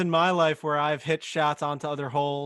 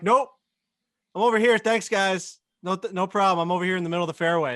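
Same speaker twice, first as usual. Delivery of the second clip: mock denial; 4 semitones higher, 4 dB louder, faster than usual. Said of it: "and I'm like".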